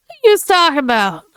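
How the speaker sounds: loud indignant tough guy; angry. Acted. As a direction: snap back, offended. Witness snaps at accusation.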